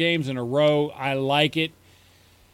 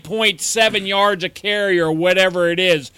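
nerdy rant; 4 dB louder than usual. Pretend. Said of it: "I'm getting into my nerd voice".

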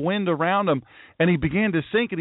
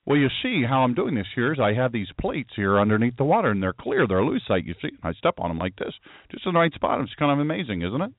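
mock showman; 7 semitones lower than usual. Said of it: "mock explanation of the water trick".

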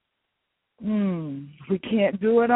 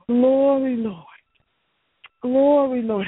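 glory, Lord rising and louder; louder praise; 4 dB louder than usual. Real, not acted. Pastor calling out praise to God, louder. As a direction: lift the praise up with force.

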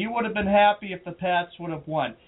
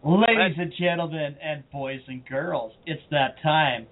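put-on booming kids show opener. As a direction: hype the crowd like a showman. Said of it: "do the intro, you hump".

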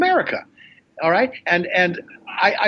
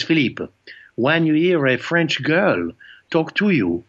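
put-on French accent. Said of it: "there was this one French guy".

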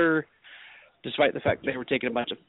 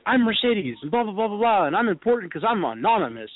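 mock Mercedes; 6 semitones higher than usual. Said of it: "And she's like".

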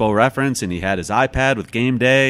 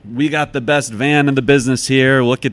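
hearty praise; 5 semitones higher, 8 dB louder than usual. Retold or imitated. Announcer praising van, retold.

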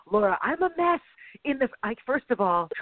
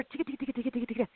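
typing noise; 2 semitones higher, 8 dB quieter, much faster than usual. Retold or imitated. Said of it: "They're typing it out".

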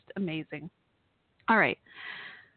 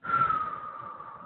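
heavy sigh; 5 dB quieter than usual. Real, not acted. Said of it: "forgive me while I catch my breath".

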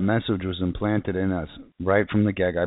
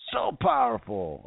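awed. Real, not acted. Lightning strike close by.

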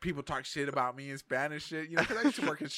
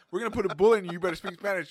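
mock threat; 6 semitones higher, 6 dB louder, faster than usual. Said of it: "they're like".

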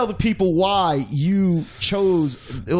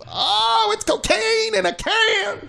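much higher, slow hype tagline; excited; slower than usual. Acted. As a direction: sell it like a hype man. Host hypes tagline.

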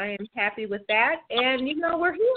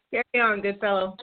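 mock British accent; 2 semitones lower than usual. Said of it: "you said it with such a great accent".

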